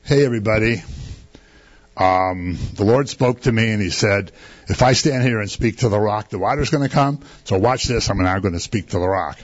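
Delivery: a hint of patient, mild announcing; calmly saying. Moses calmly telling the crowd about the rock, easygoing. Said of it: "just calmly saying".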